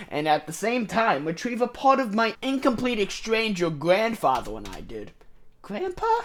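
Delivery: a hint of a sinister shadow being; radical Toby voice. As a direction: demon offering a deal to Holland. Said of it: "my radical Toby voice for him".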